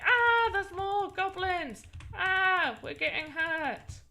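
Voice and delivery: high, drawn-out pretend wail; mock panic. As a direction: whine in playful alarm, easing off. Acting out goblin attack in game.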